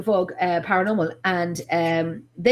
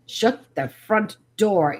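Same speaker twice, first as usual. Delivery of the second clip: slow, spaced-out disbelief; stunned, word-by-word exclamation; slower than usual. Retold or imitated. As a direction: draw out each word in mock shock. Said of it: "and I'm like".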